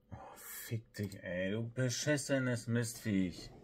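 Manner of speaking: slow seething curse; snarling punk. Real, not acted. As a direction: hiss the insults slowly. Cursing at game, slow hiss.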